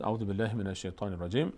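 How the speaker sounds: measured Arabic recitation formula; formal recited Arabic; Quran recitation. Shown as a demonstration. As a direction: recite it as an opening to Quran reading. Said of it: "از آداب تلاوت است".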